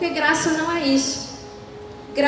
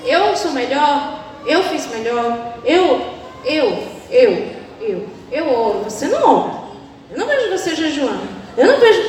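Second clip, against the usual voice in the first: mock smug boaster pointing at others; smug self-righteous; 2 semitones lower than usual. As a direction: ham up a smug churchgoer.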